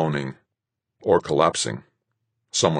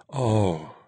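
groan; 5 semitones higher than usual. A narrator's reading. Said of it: "she actually groaned".

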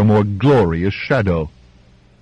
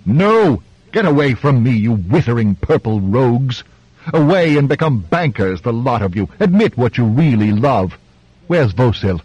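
roaring tyrant king; 3 semitones higher than usual. Acted. Wounded king shouting at doctors.

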